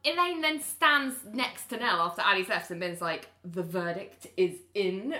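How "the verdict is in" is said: slow, drawn-out catty remark; a lightly voiced catty jab. Retelling a catty remark to a newcomer, mildly catty. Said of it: "really cattily".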